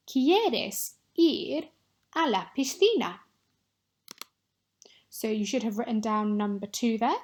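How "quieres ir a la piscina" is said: 1 dictation read. Shown as a demonstration. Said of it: "say one of these six sentences".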